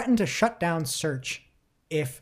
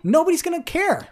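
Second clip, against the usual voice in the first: mock dismissal; 13 semitones higher, 5 dB louder than usual. Mocking Google's threat.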